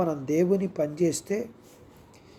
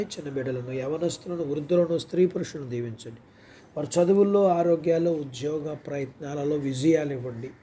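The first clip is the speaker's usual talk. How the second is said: quieter, flowing spoken prayer; 2 semitones lower, 3 dB quieter than usual. Real, not acted. Preacher asking the heavenly Father to bless the people, prayerful. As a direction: pray softly in an even, running petition.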